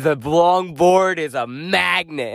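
slow, boastful smoker imitation; lightly voiced smoker bragging slowly; Francis. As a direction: stretch out each word, mocking a friend. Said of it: "in your head I talk like a smoker".

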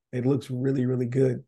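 losing his voice, slightly hoarse; a tired, fading voice. Real, not acted. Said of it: "I'm losing my voice".

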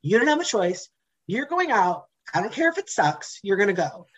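mock drill sergeant to self; stern pep talk to self. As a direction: lay down the law to yourself. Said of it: "I told myself".

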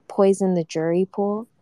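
quoting other people's mild worry; retold objection. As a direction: relay the worry as a tentative question. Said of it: "And, like, people are like".

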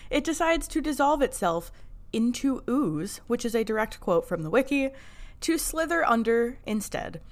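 measured, read-aloud episode summary; recap narration. A narrator's reading. Podcast host reads listeners the episode recap, narration. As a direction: narrate the plot like a storyteller.

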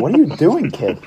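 high-pitched mock scolding; retold flip-out. Counselor confronts a kid swinging his doll, retold flip-out. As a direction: imitate an incredulous telling-off. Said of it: "I legitimately flipped out on a kid".

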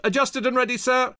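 high-pitched soldier's yell; yelled report. A narrator's reading. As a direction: yell readiness to your officer. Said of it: "Thompson yelled".

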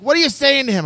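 high startled mother; alarmed mom. Retold or imitated. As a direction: demand it like a shocked mom. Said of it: "She's like".

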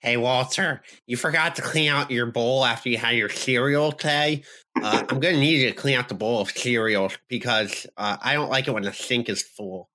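lightly voiced annoying roommate. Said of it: "That was the roommate voice".

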